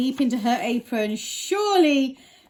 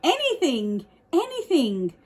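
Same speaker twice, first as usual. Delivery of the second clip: desperate pleading; 5 semitones higher, 4 dB louder, slower than usual. Acted. Desperate girl promising anything.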